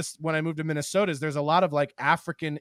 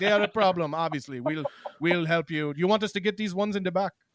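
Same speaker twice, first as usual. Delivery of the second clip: put-on Nigerian accent. Joking about Nigerians showing up at a rally: imitating Nigerians at a rally. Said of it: "They're like".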